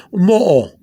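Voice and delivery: mo'o with a break between the O's; two separate O's. Shown as a demonstration. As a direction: split mo'o into two O sounds. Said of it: "you would think you will be".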